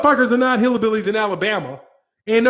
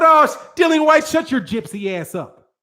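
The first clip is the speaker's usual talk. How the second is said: mock insult; 5 semitones higher than usual. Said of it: "If I said".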